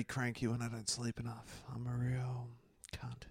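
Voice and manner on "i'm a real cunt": soft whispered confession. Real, not acted. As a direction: whisper it to yourself. Confessing crankiness under breath.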